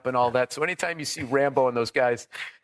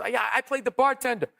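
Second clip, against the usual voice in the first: desperate comic; 6 semitones higher than usual. Retold or imitated. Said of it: "He goes".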